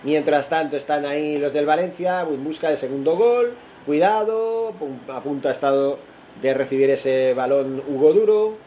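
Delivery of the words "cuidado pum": excited warning. Real, not acted. Near chance for Valencia striker.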